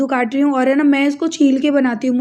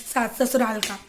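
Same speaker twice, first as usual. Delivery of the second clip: ordinary delivery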